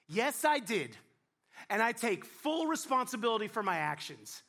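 hammed-up hero's confession; noble Adam. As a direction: play a brave, gallant Adam taking the blame. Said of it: "some of you are laughing 'cause you know that's not what he said".

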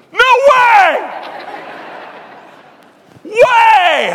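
very high, loud astonished cry; stunned no-way shout; amazed disbelief. Retold or imitated. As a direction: react like you can't believe it. Friend amazed author is there.

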